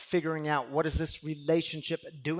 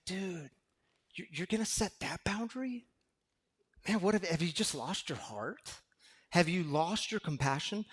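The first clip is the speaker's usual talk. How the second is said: lightly voiced mocking inner critic; 2 semitones higher than usual. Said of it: "The inner critic will creep up and say".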